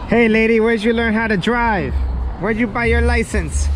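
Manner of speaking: high, loud yell at a driver; mock heckling shout. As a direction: holler it as a joking heckle. Mock yelling at a lady driver.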